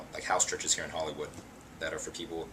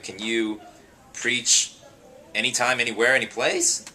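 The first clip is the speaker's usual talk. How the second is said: eager; 5 semitones higher, 8 dB louder than usual. Retold or imitated. Kev eagerly asking.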